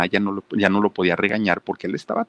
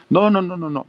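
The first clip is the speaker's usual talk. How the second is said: much higher and louder no no no; flat refusal; 10 semitones higher, 5 dB louder than usual. Retold or imitated. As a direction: end the discussion. Mother's final refusal.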